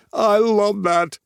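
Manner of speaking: high, slow, loud gush; delighted. Acted. Tyler gushing over Monty's accent, slow and high. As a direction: savour it with delight.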